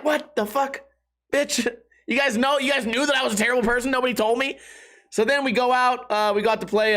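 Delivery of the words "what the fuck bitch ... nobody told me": higher, fast, indignant disbelief; hammed-up outrage, rushing the words; mock outrage. Mock outrage at friends' news.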